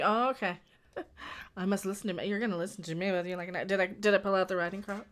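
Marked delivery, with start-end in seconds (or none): 1.6-3.7 cheeky command. Pretend. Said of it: "Telling trolls you must listen to you and that cheeky way".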